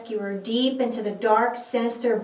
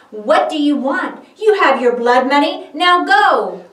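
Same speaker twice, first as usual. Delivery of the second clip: louder, cold scornful brush-off; contemptuous dismissal; 3 semitones higher, 7 dB louder than usual. Acted. Priests dismissing the remorseful Judas, louder scornful brush-off. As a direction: wave him away with contempt.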